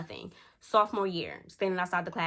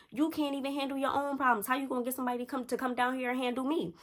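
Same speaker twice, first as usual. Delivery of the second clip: mocking comeback; 6 semitones higher than usual.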